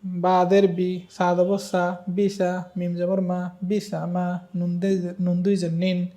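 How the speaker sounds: slow, measured letter-by-letter chant; spelling drill recitation. Shown as a demonstration. Teacher spelling the last line for students, syllable drill chant. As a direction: sound out each syllable evenly, with long vowels.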